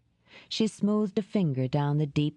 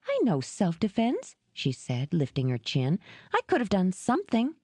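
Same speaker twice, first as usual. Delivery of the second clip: lightly voiced woman insisting, slightly higher; a hint of defiant Dora; 3 semitones higher than usual. Woman insisting to Jed she could have fought back, defiant. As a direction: chin up, insist you could fight.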